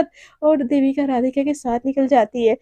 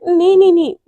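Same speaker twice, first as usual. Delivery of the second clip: quick, louder flustered no no no; flustered denial; 3 semitones higher, 6 dB louder than usual. Acted. Caught out employee flustered, denying to Devika.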